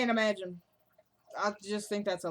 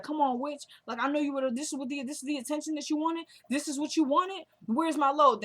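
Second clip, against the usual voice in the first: higher, mocking menace throughout; taunting threat; 5 semitones higher than usual. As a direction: sneer it at her, imitating a rough dealer. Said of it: "He's like".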